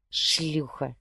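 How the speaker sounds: a clipped, angry insult pushed through the teeth; hissed through teeth. A narrator's reading. Jose hisses insults at his wife. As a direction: spit the two insults out. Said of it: "процедил".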